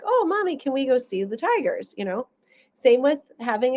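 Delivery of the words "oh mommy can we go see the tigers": lightly voiced excited kid; child's voice. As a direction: mimic an eager child. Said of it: "he's like".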